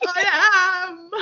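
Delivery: high, laughing through mock tears; half-laughing, half-crying admission; retold tearful confession to mum, high and laughing. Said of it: "burst out crying".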